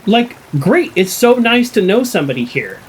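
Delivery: high, gushing re-enactment; retold eager delight. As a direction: gush to a newly found friend. Retelling relief at knowing somebody.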